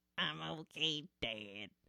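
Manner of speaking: animated-sitcom cartoon son character voice. Asked to do an impression on the spot: Bobby Hill impression. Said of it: "Bobby Hill".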